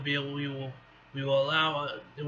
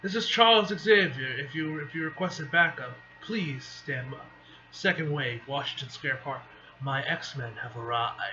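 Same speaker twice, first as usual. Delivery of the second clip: composed telepathic leader. Acted. Xavier tells heroes his X-Men have arrived, composed.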